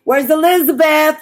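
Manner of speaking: high, drawn-out searching calls; calling out. Acted. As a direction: call down for the missing, name by name. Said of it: "I'm screaming, saying".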